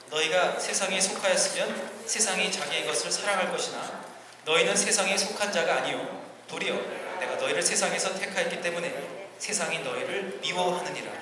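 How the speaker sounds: big-voiced verse recitation; loud group reading. Real, not acted. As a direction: read scripture out in a big voice. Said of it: "함께 큰 목소리로".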